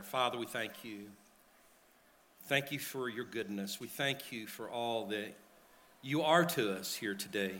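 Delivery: soft, earnest prayer at the pulpit. Acted. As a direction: pray quietly and sincerely into the mic. Pastor leads congregation in prayer.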